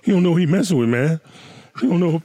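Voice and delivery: angry crying. Retold or imitated. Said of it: "what they always say?".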